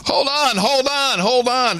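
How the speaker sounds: rising panicky hold on; frantic. Real, not acted. Overwhelmed by jingle requests.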